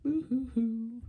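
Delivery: high boo-hoo fake sob; hammed-up boo-hoo sobbing; mock crying. Shown as a demonstration. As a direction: pretend to bawl like a cartoon. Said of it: "You are weeping".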